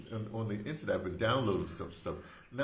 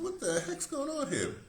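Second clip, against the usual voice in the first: much higher, slow, amazed; retold disbelief. Reacting to a classmate's new Jamaican accent, high astonished. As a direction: act stunned at the sudden accent.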